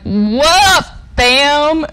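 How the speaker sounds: high, loud cocky cow saying hi. Retold or imitated. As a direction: greet like a cool cow dude. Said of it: "That cow was like".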